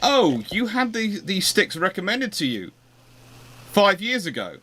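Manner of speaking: lightly imitated baffled physio; surprised physio. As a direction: act the physio amazed they've had the sticks for years. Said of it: "the physio's face when they go".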